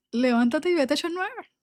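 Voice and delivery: voz de Dios firme. Retold or imitated. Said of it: "Él me habla mucho así".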